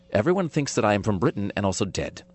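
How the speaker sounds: lightly put-on British accent. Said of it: "I say in a British accent".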